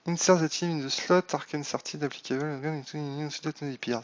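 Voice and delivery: reading English softly with a strong French accent; mumbled English with a French accent. Real, not acted. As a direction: read the English lines in a thick French accent. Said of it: "et mon accent, il vous dit bien des choses".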